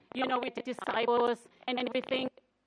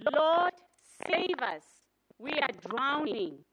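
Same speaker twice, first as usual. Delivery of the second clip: pleading cry; 6 dB louder, slower than usual. Acted. A loud plea for help. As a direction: cry out, then slow down on drowning.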